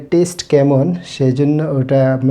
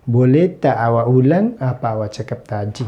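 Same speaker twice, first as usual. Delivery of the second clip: slow demo; much slower than usual. Shown as a demonstration. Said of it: "teacher demonstrating Malay phrase".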